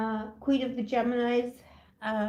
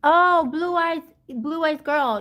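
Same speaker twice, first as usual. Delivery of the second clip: stretched, loud greeting, pitched higher; calling out; 6 semitones higher, 9 dB louder, slower than usual. Real, not acted. Streamer greeting a viewer in chat with a drawn-out loud hello. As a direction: sing out her nickname slowly.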